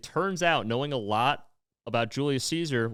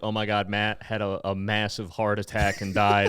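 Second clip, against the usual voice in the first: mock heartbroken; 5 semitones lower, slower than usual. Friend faking grief in a post, mock sad. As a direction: play the grieving friend. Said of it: "make a post like".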